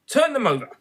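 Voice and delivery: a loud, high command to the knave; Queen orders the knave loudly. A narrator's reading. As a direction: bark the order.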